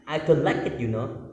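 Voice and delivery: mock Indonesian-accented English again; clunky local-accent I don't like it, you know; heavy local accent. Shown as a demonstration. Repeating the unpleasant accent example to listeners. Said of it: "Kayak gitu kan gak enak ya".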